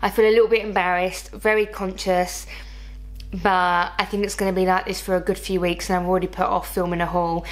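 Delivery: lisping from new braces. Real, not acted. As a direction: speak with a slight lisp. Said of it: "Yes, I have a lisp".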